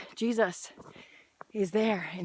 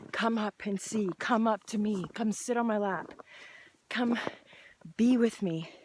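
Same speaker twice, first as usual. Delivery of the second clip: tender call. Retold or imitated. God gently inviting his child to sit with him. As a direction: coax gently like a loving father. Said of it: "That's what he says".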